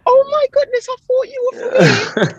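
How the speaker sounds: very high, astonished mock English accent. Fooled UK local to the runner, mock English accent. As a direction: imitate an amazed Brit, English accent way up high. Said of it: "approved by people from the U K".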